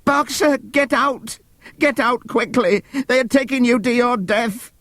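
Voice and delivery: high, desperate warning; terrible cry. Acted. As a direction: beg him to escape. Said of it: "cried Clover in a terrible voice".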